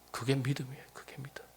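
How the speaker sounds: whispered emphatic close. Real, not acted. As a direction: drop to a hush to drive it home. Whispered conclusion.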